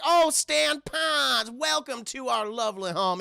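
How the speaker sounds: high, drawn-out welcome; Mister Gleeful. Retold or imitated. Mister Gleeful welcoming Stan, high and effusive. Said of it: "He's like".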